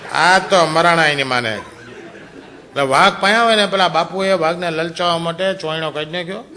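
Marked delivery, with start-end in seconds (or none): 0.1-2.8 slow words broken by laughter; chuckling while dragging out the words; laughing. Real, not acted. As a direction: laugh through the line slowly. Laughing at own punchline.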